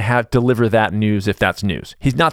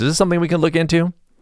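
mocking, sarcastic tone with raised pitch; 6 semitones higher than usual. Imitating the president turning to the scientists: imitating a sarcastic question.

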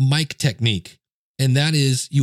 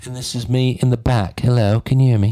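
put-on British accent throughout. Testing a microphone setting by speaking from the back: British accent. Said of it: "I don't know why I'm talking in a British accent".

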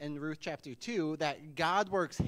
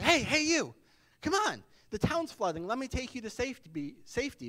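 high-pitched raised shout; 8 semitones higher than usual. Telling a flood joke, voicing a man in a rowboat: shouting. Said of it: "And he shouted".

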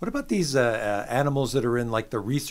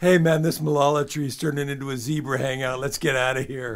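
put-on drunk, stoned dude voice. Voicing an animal at the marula tree, in a drunk stoner guy voice. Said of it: "the same drunk stone guy voice".

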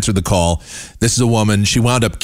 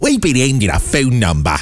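swooping, cheesy, over-the-top Australian radio DJ voice; 3 semitones higher than usual. Mocking radio hosts after playing their audio, in a pukey Australian radio DJ voice. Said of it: "the pukey radio DJ voice, Australian style".

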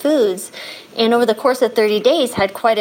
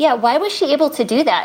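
pitched-up, play-acted astonished, wondering voice; 5 semitones higher than usual. Retelling the mom's reaction about her daughter: retelling amazed, not angry. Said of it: "not in an angry tone, but in a tone of like, wow".

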